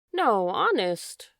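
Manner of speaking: slow, firm insistence; emphatic. A narrator's reading. Leaf insists to his fading friend he's still lovely, slow emphatic reassurance. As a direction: lean hard and slow on every word. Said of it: "the first repeated emphatically".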